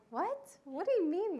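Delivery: high-pitched baffled retort; retold disbelief, pitch jumping up; incredulous. Young pilot answering the doubting customs agent, incredulous.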